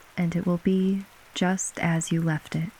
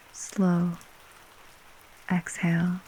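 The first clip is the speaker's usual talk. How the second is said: whispering. Acted. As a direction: whisper it gently to a sleeper. Breathing cue.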